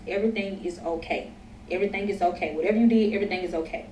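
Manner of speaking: soft, soothing retold reassurance; calming reassurance. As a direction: quietly talk him down, as retold. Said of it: "said to calm him down".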